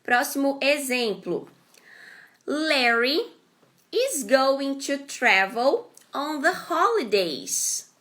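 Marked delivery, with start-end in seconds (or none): 2.5-7.9 slow, clear example read; careful teacher read-aloud; slow model sentence. Shown as a demonstration. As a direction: spell it out slowly for learners. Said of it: "Next example".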